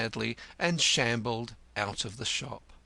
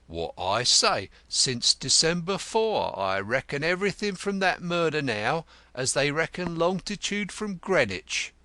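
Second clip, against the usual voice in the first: gruff Grodman; 6 semitones higher, 4 dB louder than usual. Acted.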